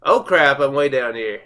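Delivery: startled loud outburst; surprised. Real, not acted. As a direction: caught off guard, exclaim it. Fell down somewhere in game.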